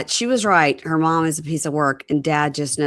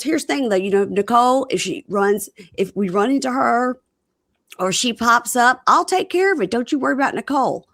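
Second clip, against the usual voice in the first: high-pitched mock husband; reassuring husband imitation; 7 semitones higher than usual. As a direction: play him smoothing it over, pitched up. Voicing husband reassuring his partner.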